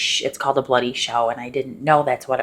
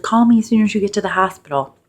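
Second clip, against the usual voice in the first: excited dad; 6 semitones higher, 5 dB louder, faster than usual. Retold or imitated. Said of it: "all excited and stuff".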